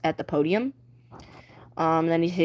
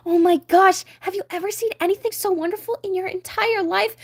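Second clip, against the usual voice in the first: excited gasp; 10 semitones higher than usual. Acted. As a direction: gasp at the treasure. Ariel finds fork.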